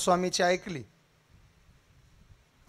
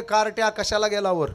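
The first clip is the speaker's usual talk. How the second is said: alarmed shout, higher and louder at the end; crowd shouting; 4 semitones higher, 10 dB louder than usual. Acted. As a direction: yell up at the boy to come down. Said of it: "लोक ओरडायला लागले".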